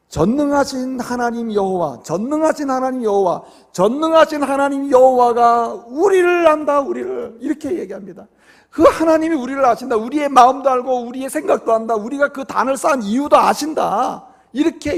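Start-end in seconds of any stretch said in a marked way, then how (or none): 0.1-7.4 acted plea calling God as witness; preacher voicing an earnest oath, swelling with each repetition; solemn invocation. Acted answer, solemn building invocation. 8.7-14.3 raised, higher voice of the accused; retold defence, insisting firmly; preacher voicing an impassioned reply; earnest protest. Acted earnest defence by accused tribes.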